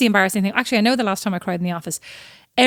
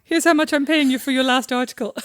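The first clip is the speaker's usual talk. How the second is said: higher, put-on boss voice; mock stingy boss; 4 semitones higher than usual. Teasing sister voicing a stingy editor, put-on voice. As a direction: play a stingy editor handing a penny.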